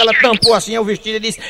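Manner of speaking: normal talking voice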